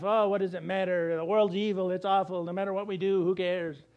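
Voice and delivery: cynical. Retold or imitated. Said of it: "cynical about life".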